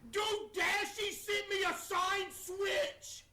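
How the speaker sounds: from stunned hush to delighted shouts; dawning joy. Real, not acted. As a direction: disbelief swelling into excited yells. Receives signed Switch gift.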